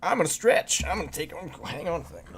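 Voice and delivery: high strained voice while stretching; stretching groan. Real, not acted. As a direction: groan through a big stretch. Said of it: "that's my stretching noise".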